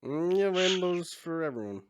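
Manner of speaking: loud, high celebratory call; exuberant cheer. Acted. Karg orders rainbow goop for everyone, exuberant high cheer. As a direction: treat the whole room, loudly and high.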